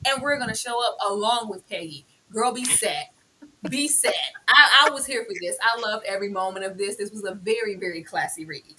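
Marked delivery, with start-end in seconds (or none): 0.1-4.1 high, proud mama declaring her stand; proud mother voice, pitched up. Retold or imitated. Host voicing Mama Scott defending her son, high and proud.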